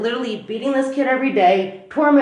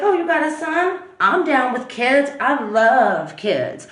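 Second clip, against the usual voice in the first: eager gushing; 2 semitones higher, slower than usual. Retold or imitated. Girlfriend eagerly welcoming his son.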